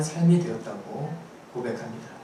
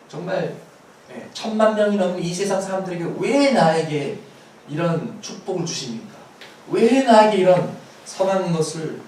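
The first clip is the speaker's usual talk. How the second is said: higher-pitched mock plea to heaven, not shouted; acted outcry; 4 semitones higher than usual. Preacher acting a blessed believer questioning God, acted outcry. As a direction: cry out "why" in lightly acted disbelief. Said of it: "이렇게 외쳐야 하는 것이".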